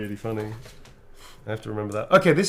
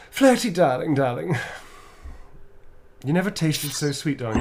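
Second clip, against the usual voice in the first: flirty vampire voice; 2 semitones higher than usual. Acted. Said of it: "fantastic sassy vampire performance".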